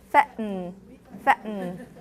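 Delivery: fatten with the T caught in the throat; fatten: glottal stop, then a syllabic N. Shown as a demonstration. Teacher drills fatten for class, T as glottal stop. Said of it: "usually a glottal stop".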